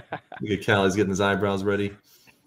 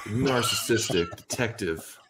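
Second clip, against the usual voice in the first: noir detective; 5 dB quieter, slower than usual. Pretend. Parody noir pitch opening.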